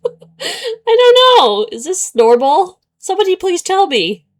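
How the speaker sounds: stretched-out laughing "I don't know", high and loud; laughing plea. Real, not acted. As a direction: beg the chat between laughs.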